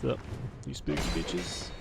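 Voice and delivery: breathy whisper greeting to the enemies; whispered spooky taunt. Pretend. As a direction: hush it like a sneaky taunt.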